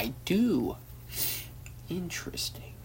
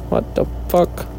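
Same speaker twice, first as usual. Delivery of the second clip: breathy whispered swear; whispered disbelief; 3 semitones higher than usual. Real, not acted. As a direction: mutter it in a whisper. Same question, second take.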